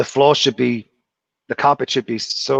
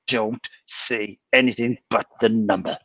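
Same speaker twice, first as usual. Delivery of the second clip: slow, deliberate mean order; slower than usual. Retold or imitated. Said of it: "mean as hell".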